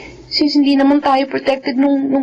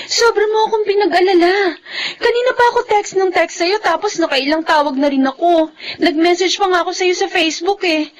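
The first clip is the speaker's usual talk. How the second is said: tearful scolding; 3 semitones higher than usual. Acted. Anxious girlfriend finally reaches Jeric.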